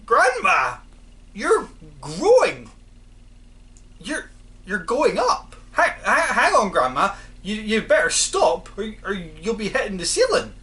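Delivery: put-on loud, high alarmed boy's cry; panicked boy yelling at his growing grandma; shouted. A narrator's reading. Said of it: "George gave a jump and shouted".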